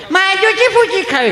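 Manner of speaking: put-on high childish demand; spoilt child. Spoilt child asks for food.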